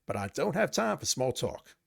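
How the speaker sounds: lightly put-on officer voice; Ken Mills. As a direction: play the weapons officer brushing someone off. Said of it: "not gonna be able to keep these voices up".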